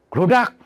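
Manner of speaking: a sudden spelt-out clatter; imitated clatter. Imitating the cooling roof's noise, quick high clatter. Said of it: "itu kan ada aja bunyinya".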